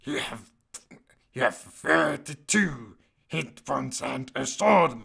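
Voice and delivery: loud, badly faked creature voice; failed Gollum. Creature guide reads out stats, botched impression. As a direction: attempt the creature voice, missing it. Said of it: "that doesn't sound like Gollum at all".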